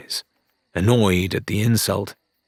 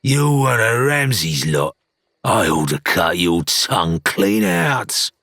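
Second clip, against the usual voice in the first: threatening pirate. Acted. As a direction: menace him. Jim threatens Rathbone.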